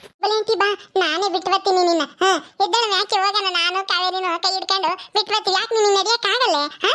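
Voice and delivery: put-on high, eager little girl asking questions; child voice.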